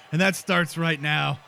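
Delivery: a lightly done, bad Irish brogue for Sheamus; bad Irish accent. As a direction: keep the clumsy Irish lilt, barely shifted. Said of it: "This is a terrible accent".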